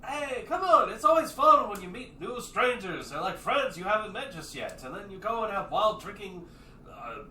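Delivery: high, loud party-brother excuses; defensive Lupe. Acted. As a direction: talk your way out of it, grinning.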